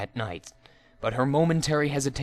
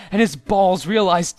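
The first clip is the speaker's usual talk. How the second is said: higher and louder, building up; rising excitement; 6 semitones higher, 8 dB louder than usual. A narrator's reading. Narrator sets up the comic wake-up call, rising and louder. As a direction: wind up for the big shout.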